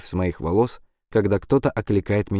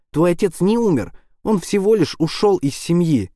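cruel yell; 10 semitones higher than usual. A narrator's reading. Quinn taunts Caplin about his father, cruel high yell. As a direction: hurl it like a blow. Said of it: "орёт Куин".

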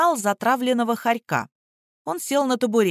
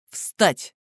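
barked order. A narrator's reading. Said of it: "гаркнул он".

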